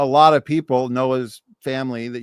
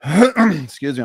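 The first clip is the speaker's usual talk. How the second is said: throat clearing; 3 semitones higher, 5 dB louder, much slower than usual. Real, not acted. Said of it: "I'm losing my boy, voice".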